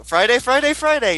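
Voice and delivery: high, hyped announcer call. Retold or imitated. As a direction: shout it like a TV promo. Mocking TV announcer hype.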